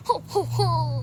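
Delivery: slow, gloating "ho, ho, ho"; drawn-out mock-evil chuckle; villain laugh. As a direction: laugh slowly like a cartoon villain. Villain gloats over bomb threat.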